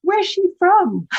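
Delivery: high and loud, slowed, puzzled; puzzled shopkeeper question. Retold or imitated. Dry cleaner asking the kid where his mother's from, puzzled and loud. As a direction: ask it slowly, straining to place her. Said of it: "He said".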